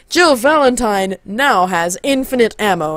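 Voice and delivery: lightly voiced narrator, slow announcing; game narrator. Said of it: "then you hear the narrator go".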